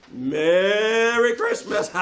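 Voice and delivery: merry Christmas through a chuckle, slowly; laughing greeting. Acted. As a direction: greet him with a warm laugh. Laughing holiday greeting on phone.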